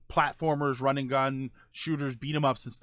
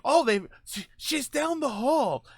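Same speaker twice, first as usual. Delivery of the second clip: game character voice; 9 semitones higher, slower than usual. Retold or imitated. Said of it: "They would have it like".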